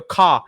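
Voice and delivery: "ca" with an open British a; British syllable. Shown as a demonstration. Host isolates the British sound, "ca" as kah. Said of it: "In British, it's pronounced ka".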